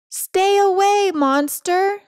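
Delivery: high, shaky bravado; mock defiance. Cat faces down the vacuum, high nervous bravado. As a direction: yell it to hold the monster back.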